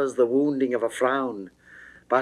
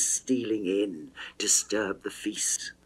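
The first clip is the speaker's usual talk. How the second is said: hushed, breathy whisper; 3 semitones lower, 6 dB quieter than usual. Acted. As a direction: drop to a secret whisper. Venus hints at jealousy's stealth.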